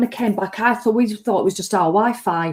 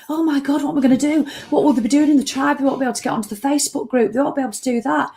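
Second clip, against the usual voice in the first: mock panic; 5 semitones higher, much faster than usual. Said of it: "instead of panicking".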